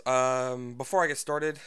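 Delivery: panting between words; winded, short of air; out of breath. Real, not acted. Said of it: "oh, I'm out of breath".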